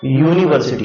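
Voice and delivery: यूनिवर्सिटी opening on "yoo"; word pronunciation demo. Shown as a demonstration. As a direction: say यूनिवर्सिटी with a clear initial y. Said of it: "इसको उच्चारण में क्या पढ़ते हैं".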